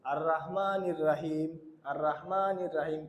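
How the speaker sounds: slow, thin র in রহমানির; wrong recitation. Shown as a demonstration. Teacher imitates how students misread the verse. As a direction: imitate the common mistake. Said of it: "আমরা বেশিরভাগ ক্ষেত্রে এইভাবে পড়ি".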